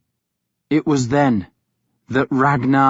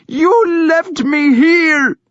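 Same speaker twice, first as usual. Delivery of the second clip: slow, high, loud crying accusation; accusing cry; 5 dB louder, slower than usual. A narrator's reading. Thyra accusing her brother, crying. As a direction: cry the blame at him. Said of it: "she accused him".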